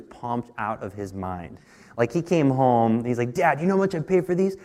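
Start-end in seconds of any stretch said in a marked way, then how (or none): 3.3-4.6 imitating excited son. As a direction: retell the boy's thrill over cheap Nikes. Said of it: "He was so excited".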